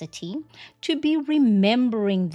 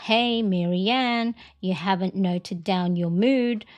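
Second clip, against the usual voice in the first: gentle nudge reminder. Pretend. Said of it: "it's like your little nudge".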